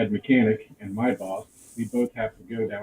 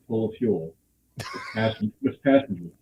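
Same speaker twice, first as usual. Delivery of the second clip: laughing. Real, not acted. Laughs at his own fear.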